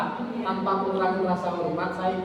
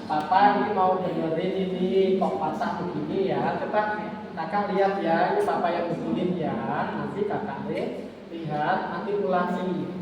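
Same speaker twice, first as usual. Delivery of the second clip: put-on slow, patient parent voice to the child; calm parent demo; slower than usual. Shown as a demonstration. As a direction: guide the child gently and slowly. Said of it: "Sini, sini".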